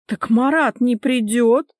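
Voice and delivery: slightly high, slow, innocent-sounding protest; feigned innocence. Acted. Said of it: "Она невинно захлопала ресницами".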